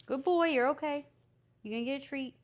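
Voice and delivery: cheerful dog praise; talking to a dog. Real, not acted.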